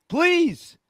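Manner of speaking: laughing. Real, not acted. Laughs after his rant.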